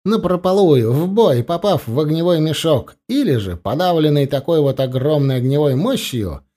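lightly voiced general. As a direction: lay out the plan to officers. General explains the plan.

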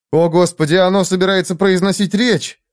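high exclamation of dismay; mock dismay. A narrator's reading. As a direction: groan in dismay at what is coming. Onlookers dread his speech.

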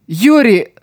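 high, sharp cry of her name; anguished cry. A narrator's reading. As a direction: call her back in shock. Friend stops breathing.

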